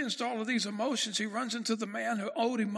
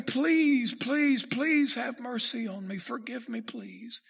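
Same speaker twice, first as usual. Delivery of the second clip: desperate begging; slower than usual. Acted. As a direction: beg the master for your life. Preacher voices the begging servant.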